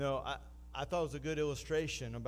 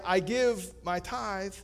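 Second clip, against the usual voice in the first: mock churchgoer; 4 semitones higher than usual. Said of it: "in your mind".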